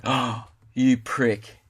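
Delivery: slow, gasped pretend offence; drawn-out mock-appalled reproach; mock outrage. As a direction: act lightly scandalised by your mate.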